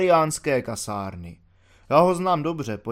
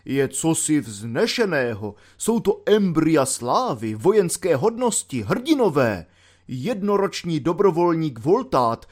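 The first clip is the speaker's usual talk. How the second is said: pompous colonel aloud; 3 semitones higher than usual. Retold or imitated. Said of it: "blbil ten pitomec obrst nahlas".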